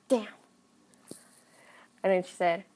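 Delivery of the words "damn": quiet, short curse to himself; muttered aside. Retold or imitated. Dad after giving in, muttering to himself. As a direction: grumble it under your breath.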